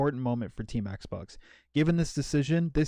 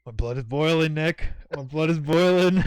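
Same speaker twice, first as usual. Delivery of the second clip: mildly worked up, building louder and higher; getting riled, pushing harder on the repeat; 3 semitones higher, 5 dB louder than usual. Real, not acted. Host goaded by cohost in a cancellation debate, riled up. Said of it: "don't get me riled up again".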